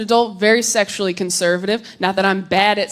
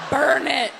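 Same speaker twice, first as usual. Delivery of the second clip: laughing repeat; 4 semitones higher than usual. Real, not acted. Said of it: "a dark way of saying cremation".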